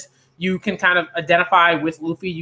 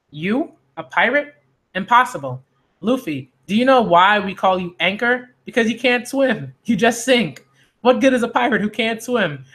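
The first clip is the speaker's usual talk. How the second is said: lightly voiced incredulous mockery; teasing pirate captain; 5 semitones higher than usual. Pirate mocks boy who can't swim, teasing. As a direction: rib the kid with rising disbelief. Plays captain mocking Luffy.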